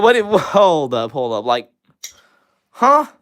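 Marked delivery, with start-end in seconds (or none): 0.0-1.1 slow, higher and louder, taken aback; baffled surprise. Real, not acted. Baffled by a viewer's question. 2.7-3.1 sharply higher, louder baffled huh; a bewildered yelp of a question; confused huh. Real, not acted.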